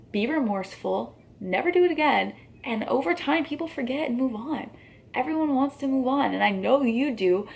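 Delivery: high-pitched, sarcastic coaxing. Real, not acted. Vlogger telling a scandal-hit creator to apologize, sarcastic. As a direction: spell it out with mock patience, pitch lifted. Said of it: "sorry for being sarcastic there".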